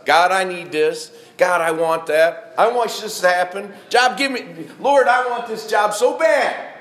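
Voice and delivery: loud, pushy whining at God; demanding prayer. Acted. Preacher mimics a greedy prayer to God, loud whiny demand. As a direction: beg God like a spoiled child.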